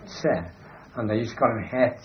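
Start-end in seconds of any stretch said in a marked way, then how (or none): 0.1-0.3 se with an s sound; German letter name "se". Shown as a demonstration. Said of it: "the Germans pronounced C".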